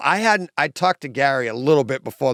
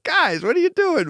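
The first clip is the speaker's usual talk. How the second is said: laughing quote. Retold or imitated. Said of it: "And I was like".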